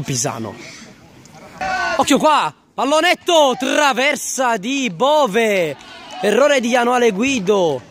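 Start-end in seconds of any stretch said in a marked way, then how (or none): 1.9-7.8 rising call as the lob hits the bar; excited play-by-play burst; excited commentary. Real, not acted. Near miss hits the crossbar.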